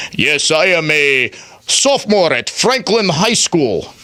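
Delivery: mock Russian accent for a student; imitating him in a put-on Russian accent; lightly done Russian accent. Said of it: "I don't know why I gave him a Russian accent".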